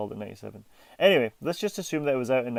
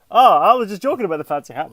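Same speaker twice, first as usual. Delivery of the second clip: mocking friend's voice; 7 semitones higher, 12 dB louder than usual. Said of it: "Jay's like".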